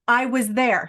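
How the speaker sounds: loud, insistent assertion; emphatic spirit message. Acted. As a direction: press the point firmly as the mother. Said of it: "she's saying that she".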